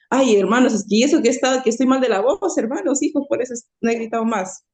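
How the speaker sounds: loud, mock-pleading pastor to the flock; mimicking the pastor. Pastor excusing himself to the congregants, loud mock plea. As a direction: imitate the pastor calling out loudly to his congregation. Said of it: "y decía a los siervos".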